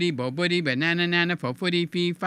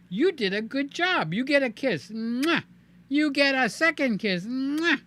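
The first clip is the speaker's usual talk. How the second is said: put-on baby talk to toy; 6 semitones higher than usual.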